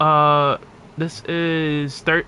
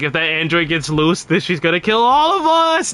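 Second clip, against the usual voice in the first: Trunks panic, rising; 2 semitones higher than usual. Retold or imitated. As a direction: build from level warning to shriek. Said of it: "'Cause he's like".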